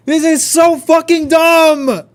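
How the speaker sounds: real angry shouts at the game; angry shouting. Real, not acted. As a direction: spit out the anger at the game. Raging at the game.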